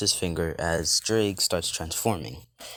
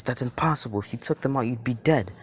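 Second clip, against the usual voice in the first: higher-pitched, incredulous protest; mild disbelief; 5 semitones higher, faster than usual. Acted. Ria refusing to believe Issei's claim, mildly incredulous. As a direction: object as if it simply cannot be true.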